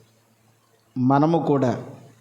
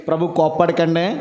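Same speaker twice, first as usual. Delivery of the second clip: gentle plea; 5 semitones lower than usual. Retold or imitated. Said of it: "ప్రభు దగ్గరకు వెళ్ళి".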